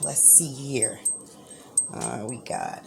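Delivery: hushed so sleepers stay asleep; quiet, low murmur; talking low. Real, not acted. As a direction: keep it down, people still in bed. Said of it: "so I better talk a little low".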